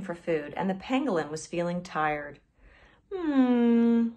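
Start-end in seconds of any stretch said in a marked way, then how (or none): 3.1-4.1 sleepy yawning hum; drowsy yawn before speaking. A narrator's reading. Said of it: "the anteater-like creature yawned".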